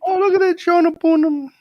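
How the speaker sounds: very high, loud gushing yenta; New York Jewish accent. Retold or imitated. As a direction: coo over the baby face like a Jewish grandma. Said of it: "how long have you spoken Yiddish".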